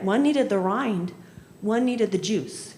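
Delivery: "One needed the rind, one needed the juice" said slowly, leaning on "needed"; slow deliberate point. Shown as a demonstration. Teacher to trainees spelling out the lesson: slow, deliberate. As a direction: lay out each word slowly.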